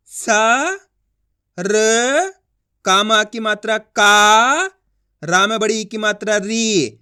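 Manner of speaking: slow spelling-out with long held sounds; letter by letter. Shown as a demonstration. Teacher showing how to pronounce each letter, slowly. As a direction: hold "सा", "र", "का", "री", pausing between. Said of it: "एक एक अक्षर का उच्चारण करके".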